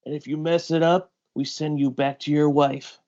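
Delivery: menacing threat. Acted. S2 voices captor's threat.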